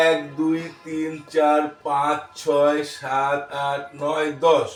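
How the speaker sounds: drawn-out, even classroom count; textbook counting recitation. Shown as a demonstration. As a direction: count out each number for pupils. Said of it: "নিয়ম মতো আমরা যেভাবে পড়বো". (নিয়ম মতো গুনে পড়া)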